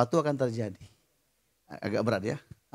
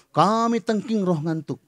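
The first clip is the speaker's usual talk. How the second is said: drawn-out mock exorcism; mock rebuke; 3 semitones higher, slower than usual. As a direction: stretch it out like a playful deliverance command. Mock rebuke of sleepy spirit. (pura-pura menengking, dipanjangkan)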